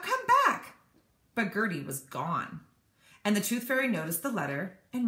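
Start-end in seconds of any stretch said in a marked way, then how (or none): 0.0-0.8 loud, high call after someone leaving. Acted. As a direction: shout it after the bird. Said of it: "she called out".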